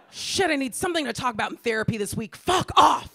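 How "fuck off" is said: mock fuck off. Telling off worried friend.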